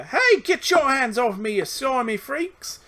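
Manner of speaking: put-on girl caught by goblins, struggling and yelling; struggling protest. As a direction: fight them off while yelling. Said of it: "struggling to break free".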